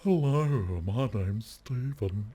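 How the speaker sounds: high, drawn-out, put-on greeting; affected refined voice. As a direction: introduce yourself in a mock-cultivated voice, very slowly at the end. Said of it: "now I sound like this".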